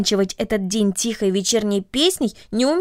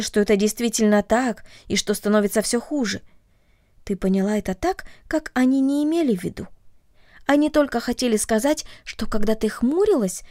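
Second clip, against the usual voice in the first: calm. Acted. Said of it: "спокойно продолжала мать".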